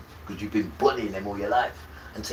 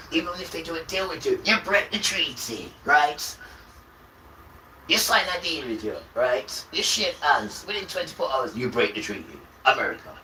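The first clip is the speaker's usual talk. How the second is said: loud, raised, accusing voice; shouting; 5 semitones higher, 4 dB louder than usual. Real, not acted. Ranting about broken treaties, loud and accusing. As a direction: shout the betrayal at them.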